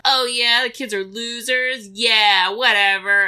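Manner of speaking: mock sarcastic agreement. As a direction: brush it off with lightly acted sarcasm. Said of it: "the speaker is using sarcasm".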